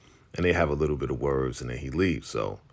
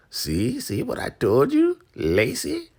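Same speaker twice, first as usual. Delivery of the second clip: very high, louder gloating; imitating a woman gloating to Lacey, very high and louder; gloating squeal; 11 semitones higher, 4 dB louder than usual. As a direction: crow it up high.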